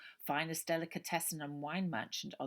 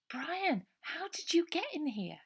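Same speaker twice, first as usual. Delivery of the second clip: put-on high, loud girl's voice, apologetic and urgent; a worried girl pouring out an apology; anxious young girl; 13 semitones higher, 6 dB louder than usual. A narrator's reading. Ida's voice.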